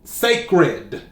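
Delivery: "sacred" said alone, deliberately; measured, emphatic "sacred"; emphasized word. Shown as a demonstration. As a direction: let "sacred" stand by itself with weight. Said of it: "Let's emphasize the word sacred".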